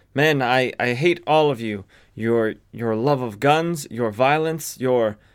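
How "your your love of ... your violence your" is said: normal talking voice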